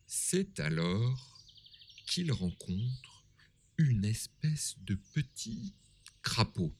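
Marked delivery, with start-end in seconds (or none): 2.1-6.7 whispering. A narrator's reading. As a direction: whisper the suspense. Suspense in narration.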